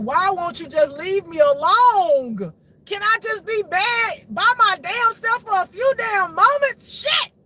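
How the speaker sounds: high, loud, drawn-out exasperated yell; pissed-off yelling. Retold or imitated. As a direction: wail in fury to be left alone. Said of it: "that be pissing me off".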